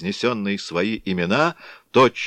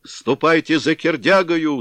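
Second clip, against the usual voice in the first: loud, high command; shouting; 9 semitones higher, 5 dB louder than usual. A narrator's reading. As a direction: bellow the order. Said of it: "закричали".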